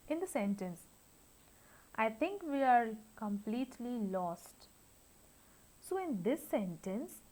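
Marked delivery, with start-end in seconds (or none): 1.9-4.7 "I think we are completely lost" gliding down to the end; falling intonation. Shown as a demonstration. Teacher models an example sentence, falling tune ending on "lost". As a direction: let the pitch fall away on "lost". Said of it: "with a fall".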